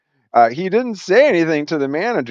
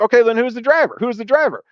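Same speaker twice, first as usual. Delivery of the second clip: insistent demand; 9 semitones higher than usual. Retold or imitated. Pressing the manager again.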